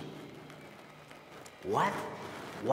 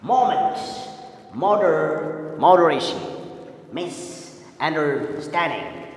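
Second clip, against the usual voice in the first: syllables drawn out; 4 dB louder, slower than usual. Shown as a demonstration. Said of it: "We pause when we read the word".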